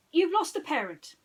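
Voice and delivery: high, loud pronouncement; detective guessing wildly; dramatic Basil. Acted. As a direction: declare it like a revelation. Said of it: "he said".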